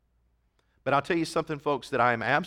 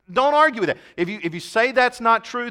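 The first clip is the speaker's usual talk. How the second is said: fervent challenge; 8 semitones higher, 4 dB louder than usual. Real, not acted. Preacher challenging the congregation.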